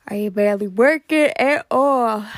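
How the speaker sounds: words stretched through a yawn. Real, not acted. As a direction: yawn while asking. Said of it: "I'm yawning".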